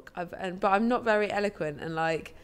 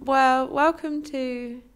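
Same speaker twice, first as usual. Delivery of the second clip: podcast host. Pretend. Opening the podcast.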